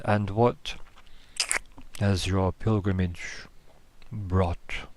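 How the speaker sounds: slow, crackling thunder voice; crackling thundery voice. Acted. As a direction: rumble it out slowly. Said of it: "That kind of crackling, thundery".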